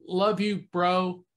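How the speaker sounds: high, loving farewell through the spirit box; a dead friend's warm goodbye crackling through; Billy's voice. Retold or imitated. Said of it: "It was Billy's voice".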